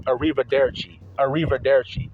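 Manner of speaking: arrivederci with flat American R's, unrolled; Americanized pronunciation. Retold or imitated. Imitating classmates in Italian class, Americanized arrivederci. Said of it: "They're Americanizing it".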